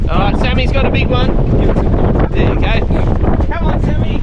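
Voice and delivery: excited. Real, not acted. Fishing catch, cheering son on.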